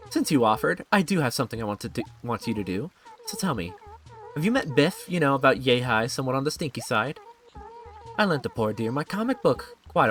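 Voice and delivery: lightly voiced haughty favor-asker; a hint of airy condescension, lilting; snooty game character. Valise sending Lime after a comic book, lightly snooty.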